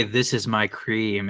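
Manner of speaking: low, slow creepy imitation. Co-host quoting the ad's line in a creepy voice. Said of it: "in that creepy voice".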